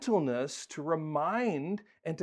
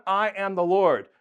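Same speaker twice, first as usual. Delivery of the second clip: voicing God; 2 semitones higher, 5 dB louder than usual. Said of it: "You have it in the front".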